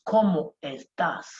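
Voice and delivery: "Cómo" with the weight on its first O; stress on the O. Shown as a demonstration. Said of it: "There's going to be a stress on the O".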